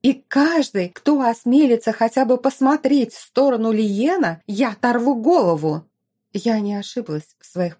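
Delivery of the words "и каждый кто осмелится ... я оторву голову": high, loud possessive yell; shrieking jealous rage; jealous fury. Acted. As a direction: scream the threat, claiming him. Jealous fiancée threatens everyone.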